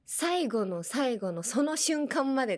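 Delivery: 最後の最後 punched in rising peaks; insistent emphasis on 最後の最後; emphatic 最後の最後. Shown as a demonstration. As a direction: stress each 最後, pushing on to 瞬間. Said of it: "何か強調したい時に".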